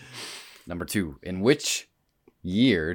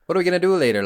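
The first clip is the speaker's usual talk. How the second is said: questioning lilt; 9 semitones higher, 4 dB louder, much faster than usual. Retold or imitated. Quoting how they'd talk.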